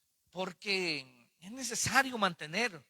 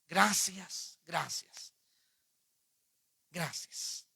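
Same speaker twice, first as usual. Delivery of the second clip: public prayer. Real, not acted. Preacher thanking God before the congregation, prayerful.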